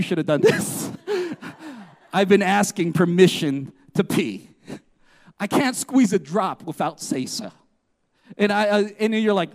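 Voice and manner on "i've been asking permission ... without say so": lower-pitched, lightly Southern narration; a rough go at a Southern movie narrator; attempted Southern accent. Preacher voicing Red's bathroom narration, attempted Southern accent. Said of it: "he has a southern accent".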